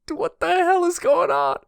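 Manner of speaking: very high incredulous voice; retold bafflement. Recalls reading the manga scene, bewildered and incredulous. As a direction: replay your own stunned reaction. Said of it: "And I was like".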